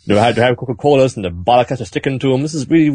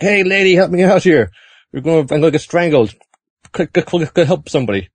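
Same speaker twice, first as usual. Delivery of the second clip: high-pitched cry for help; mock panicked plea; 5 semitones higher than usual. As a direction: stammer out a hammed-up plea for rescue. Strangled man pleading for help.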